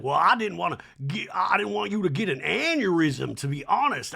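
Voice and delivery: lightly hammed Southern socialite; a hint of mock socialite; Sutton. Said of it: "and Son's like".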